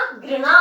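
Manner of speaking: घृणा with a plain g and a rolled ri, griṇa, said slowly; correct pronunciation. Shown as a demonstration. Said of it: "घृणा होता है".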